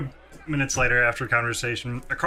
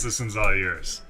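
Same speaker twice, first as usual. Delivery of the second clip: slow Southern drawl; Southern sheriff; 4 semitones lower, 4 dB quieter, slower than usual. Acted. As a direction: hand off the kid, sheriff-style. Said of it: "turned into, like, a southern sheriff".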